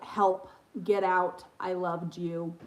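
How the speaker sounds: slow, low creepy parrot imitation; lightly voiced demon noises; mock demon voice. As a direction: drag it out like a spooky bird at night. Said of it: "he'll say things like".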